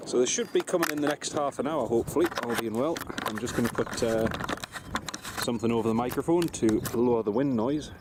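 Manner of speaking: slightly wheezy after cycling; a little out of breath and wheezy. Real, not acted. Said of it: "Excuse me if I sound a little bit wheezy".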